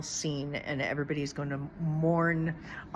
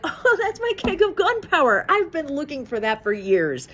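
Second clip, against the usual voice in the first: much higher, louder, odd mock Hunter voice; hammed-up Hunter, casual about gunpowder; imitating Hunter; 10 semitones higher, 7 dB louder than usual. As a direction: toss it off like it's nothing, high and loud.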